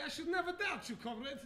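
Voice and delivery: light put-on Russian accent; mild Russian accent, deferential. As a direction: call him comrade like a Russian. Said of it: "do this accent".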